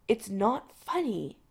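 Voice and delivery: tight, slow, held-back voice. Acted. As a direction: say it tightly, through restraint. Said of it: "McCoy says tightly".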